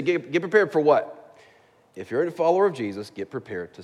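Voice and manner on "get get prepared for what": slower, stumbling, higher questioning repeat; a listener questioning the pastor, mock puzzled; puzzled objection. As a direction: push back as a confused listener would. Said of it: "You say".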